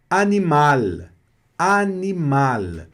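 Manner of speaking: a-ni-MAL, final L clear on tongue tip; French animal with L. Shown as a demonstration. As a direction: animal com L na ponta da língua. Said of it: "pronúncia desse L no final". (animal com L final na ponta da língua)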